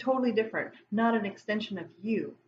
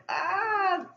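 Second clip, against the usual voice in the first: drawn-out, higher-pitched "ah" of unease; uneasy mock groan; 9 semitones higher than usual. Acting out a first reaction to an unwelcome feeling, uneasy mock groan. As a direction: let out a high, mock-uneasy "aah".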